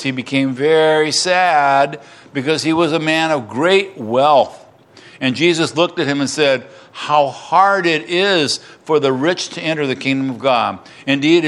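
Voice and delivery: measured, emphatic Bible reading; scripture reading. Acted. Pastor reading verse eighteen onward to congregation, emphatic scripture reading. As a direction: proclaim the passage, weighting the key words.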